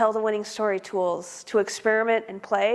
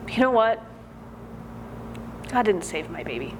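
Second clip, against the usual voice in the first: halting, emotional confession with long pauses; acted defiance, pitch jumping then falling; defiant prisoner's monologue; 4 dB quieter than usual. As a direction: play a mother insisting, with long silences between phrases. Prisoner's climax, saved her baby herself.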